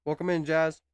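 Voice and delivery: talking while chewing toast; words round a bite of toast; mouth full. Real, not acted. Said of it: "I'm just munching on some toast right now".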